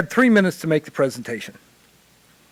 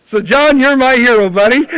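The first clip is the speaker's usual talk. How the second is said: excited cheer; 8 semitones higher, 11 dB louder than usual. Real, not acted. Cheering the previous speaker.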